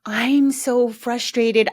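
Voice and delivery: slow, drawn-out mock parent venting; a hint of a parent unloading on the kid; oversharing parent. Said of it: "They're oversharing their process".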